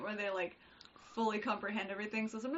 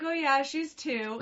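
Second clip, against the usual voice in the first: casual matter-of-fact; 5 semitones higher, 6 dB louder, slower than usual. Retold or imitated. Friends quoted as kids.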